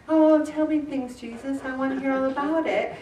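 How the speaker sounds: soft, dreamy adoring voice, dropping off quietly; an enraptured listener at Jesus' feet; dreamy Mary. Retold or imitated. Mary sitting with Jesus, soft dreamy adoring voice. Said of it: "And Mary's in there".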